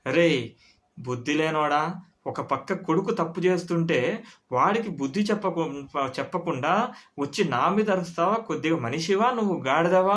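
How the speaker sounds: a touch of heat, retold scolding; mock angry friend. Friend scolds the father, in mild mock anger. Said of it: "అని అన్నాడు కోపంగా".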